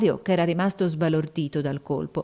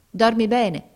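put-on girl's voice; 5 semitones higher, 5 dB louder, slower than usual. Girl says good night.

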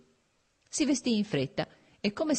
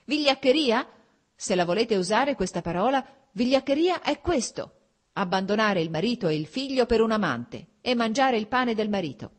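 higher, louder bitter rebuke; husband lashing out at his wife, higher and louder; angry retort; 4 semitones higher, 4 dB louder than usual. Acted. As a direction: throw her word back in her face. Karenin angrily throws word back.

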